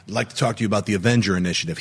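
low, quick movie quote; Samuel L. Jackson. Retold or imitated. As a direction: deliver it fast and low, lightly imitating. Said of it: "Samuel L. Jackson".

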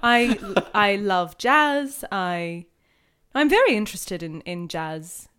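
slow, careful neutral Australian; neutral Australian accent. Acted. Podcaster retrying a character's jazz line, neutral Australian accent. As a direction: try a measured, neutral Australian voice. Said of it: "I'm doing neutral Australian".

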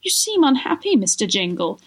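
high plaintive opening that sinks. Acted. Lady concerned for Jingle, plaintive. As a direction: plead softheartedly, starting high and falling. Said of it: "in a plaintive voice".

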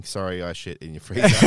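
giggling through the apology; laughing apology mid-sentence. Real, not acted.

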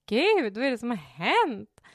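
långsamt och starkare utdraget; chockad. Retold or imitated. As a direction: dra ut på chocken. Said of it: "Och jag bara". (förskräckt och långsamt utropat)

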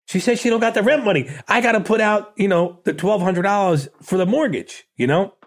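mock-panicked pleading; retold panic. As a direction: sound like a rookie landlord losing it. Retold panic to his friend.

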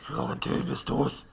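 low hushed call; whispering. Acted. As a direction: whisper into the dark. Creature calls out.

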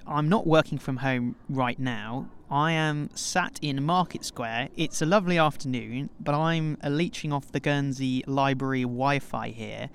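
towel over head; muffled under a towel. Real, not acted. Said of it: "you have a towel on your head".

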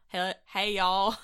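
light Southern cowboy drawl demo; cowboy accent. Shown as a demonstration. Showing co-host the cowboy voice, light cowboy accent. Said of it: "I don't know what accent you'd call that".

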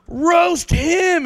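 high, excited crowd call; egging on. Retold or imitated. People point out the next victim, imitated egging on.

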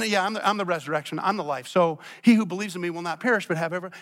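quick and offhand, thrown away; mock offhand. Preacher mocking a casual reading, quick and offhand. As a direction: rattle it off like it barely matters. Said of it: "It is so much more here than".

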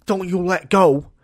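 mock-epic hairdresser; heroic rescuer cry again. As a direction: repeat the dramatic rescue line. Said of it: "my hairdresser's going".

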